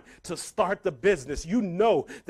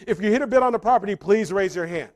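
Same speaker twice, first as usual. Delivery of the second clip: lightly voiced auctioneer, brisk announcement; 2 semitones lower, 3 dB louder than usual. Auctioneer addresses the room to start bidding, lightly formal announcement. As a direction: open the bidding in a hint of auctioneer. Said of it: "the auctioneer comes up to the podium".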